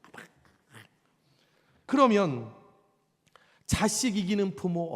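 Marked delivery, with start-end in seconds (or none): 0.0-0.2 hushed, breathy coaxing plea to dad; the cunning child sweet-talking an angry father; sly wheedling child. Retold or imitated. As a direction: whisper a wheedling apology like a sly kid. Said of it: "또 여우 같은 것들은".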